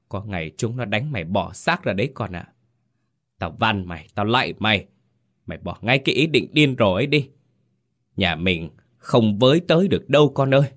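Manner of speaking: angry pleading mother. Acted. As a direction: cut him off, then plead. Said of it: "gạt phắt tay Tú ra". (mẹ vừa mắng vừa van xin con, giọng cao)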